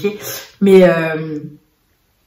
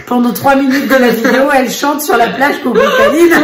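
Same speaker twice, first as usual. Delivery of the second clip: laughing. Real, not acted. Retells the song, laughing.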